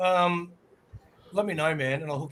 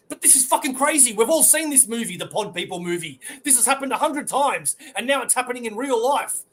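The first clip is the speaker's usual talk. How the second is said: exasperated heroine; 8 semitones higher than usual. Retold or imitated. Woman to the happy virus crowd, high and incredulous. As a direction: play the one sane woman who can't believe it. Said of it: "And she's like".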